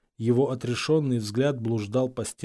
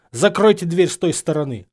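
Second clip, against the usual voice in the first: loud, raised order; angry command; 5 semitones higher, 7 dB louder than usual. A narrator's reading. Snape throwing Harry out, loud and angry. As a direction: send him packing.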